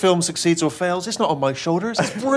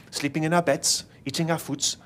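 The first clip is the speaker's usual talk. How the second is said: lightly done German accent; careful, rehearsed German accent; 2 semitones higher, 3 dB quieter than usual. Shown as a demonstration. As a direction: recite coached lines in a German accent. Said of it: "to do a German accent".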